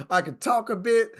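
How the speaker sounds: said through a laugh; a giggly confession. Real, not acted. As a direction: laugh while admitting it.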